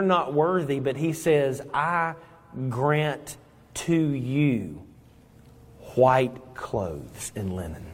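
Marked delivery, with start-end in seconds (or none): 1.7-7.9 slow solemn Christ. Acted. Christ grants white clothes.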